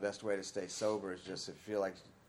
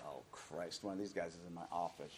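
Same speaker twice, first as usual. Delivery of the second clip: muttered dread; 5 semitones lower, 9 dB quieter than usual. Retold or imitated. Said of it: "It's like".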